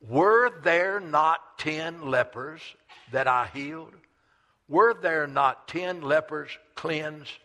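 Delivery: Jesus asking where the healed went; Jesus' question. Acted. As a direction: ask it slowly like a grieved master. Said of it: "Jesus answered and said".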